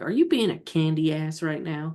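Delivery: ordinary talk, nothing marked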